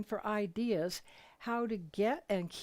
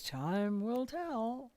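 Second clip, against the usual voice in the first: quoting husband slowly; much slower than usual. Retold or imitated. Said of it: "as Jim says".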